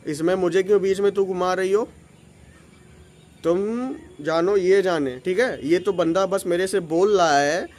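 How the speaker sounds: low, cool and firm talking-to; tight, firm. Shown as a demonstration. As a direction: put the aunty in her place, coolly. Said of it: "मैं बताता हूँ कैसे बोला था".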